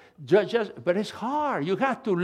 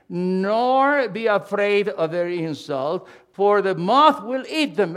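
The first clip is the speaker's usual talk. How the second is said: scripture reading; 4 dB louder than usual. Acted. Reads scripture with force.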